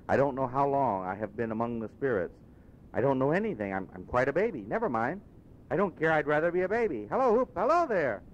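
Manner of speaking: put-on an old miser gone giddy as a baby, rising to a high cry on Hello; giddy old Scrooge. Scrooge waking changed, giddy with delight.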